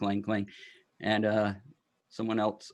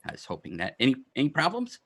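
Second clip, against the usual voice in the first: a fussy gnome glad the package came; excited gnome; 4 semitones higher, faster than usual. Acted. Gnome greeting the courier, high and eager. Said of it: "And he's like".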